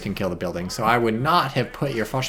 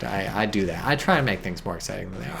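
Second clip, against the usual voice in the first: ordinary talk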